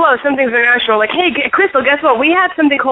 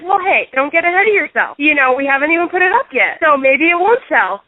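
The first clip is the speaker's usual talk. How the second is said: lightly raised, mock-soothing landlord; 4 semitones higher than usual. Landlord brushing off her worry, a hint of mock-soothing voice. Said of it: "he's like".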